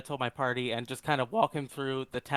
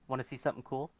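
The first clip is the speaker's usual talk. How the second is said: sly offer; 4 dB quieter, faster than usual. Acted. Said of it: "put my chin up on the desk and say".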